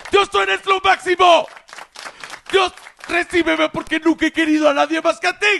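hammed-up older lady shrieking to God; screaming prayer.

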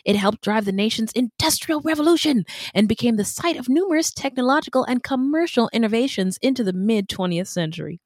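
formal news anchor read; newscaster voice. Acted. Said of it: "I'm trying to talk like a newscaster".

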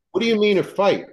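can't believe what you heard; asking the assistant in disbelief, incredulous; incredulous question. Retold or imitated.

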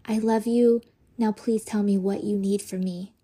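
gentle, unraised asking; loving request. Shown as a demonstration. Woman showing couples how to ask with love, gently. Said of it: "and don't yell it".

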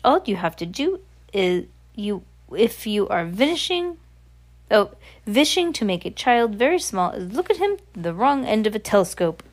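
witch with a put-on accent, lilting emphasis; instructing witch. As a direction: explain it as a self-satisfied witch. Voices the Grand High Witch.

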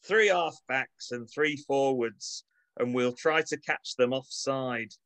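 hearty Manchester team talk; rally the players, Manchester accent. Pretend. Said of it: "in my best Manchester accent".

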